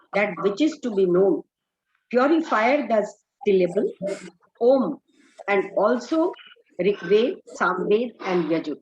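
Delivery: slow, spaced-out translation, word by word; very slow reading. Acted. Teacher slowly reading the English translation to students. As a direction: read it out slowly so students can follow.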